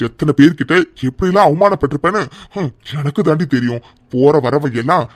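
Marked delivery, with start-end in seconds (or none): 0.1-3.8 angry command. Acted. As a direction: shut her up. Husband silences wife.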